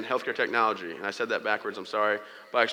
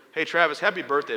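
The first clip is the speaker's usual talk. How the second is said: mild mock yell, pitched higher; retold yell; 5 semitones higher, 4 dB louder than usual. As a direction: call out like mom yelling through a phone. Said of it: "my mom yells through".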